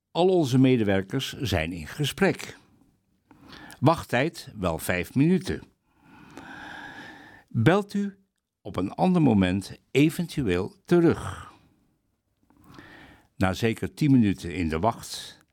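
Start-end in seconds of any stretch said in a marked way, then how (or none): 0.1-11.5 flat recorded hold message; robot voice. Retold or imitated. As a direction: read it like a machine prompt. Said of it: "zijn er computerstemmen".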